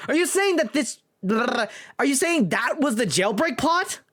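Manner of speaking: put-on incredulous young lawyer. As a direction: question the witness in disbelief. Defense lawyer questions.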